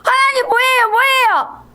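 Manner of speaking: high-pitched, indignant protest to God; acted-out angry complaint; angry Jonah. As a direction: whine in outrage, voice pushed way up. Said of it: "요나가 화가 났어요".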